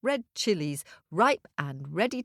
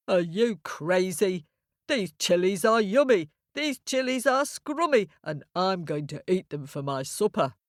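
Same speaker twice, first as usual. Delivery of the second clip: lightly voiced cheeky ram. Ram refuses to leave the boy's chilies, lightly mocking. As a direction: play a scoffing ram, lightly.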